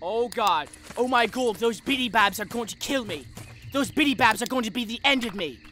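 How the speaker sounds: put-on English accent. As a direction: do a mock British accent, deliberately enunciated. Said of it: "Slap a like for my English accent".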